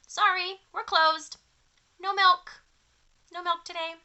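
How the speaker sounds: cows' note. Acted. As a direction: read it like a cheeky sign. Cows' strike note read aloud.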